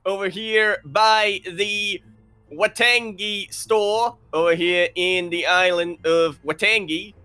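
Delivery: drawn-out live show opening; announcer intro. Acted. Host welcoming viewers to the weekly tournament, announcer intro. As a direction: stretch it out like an event host.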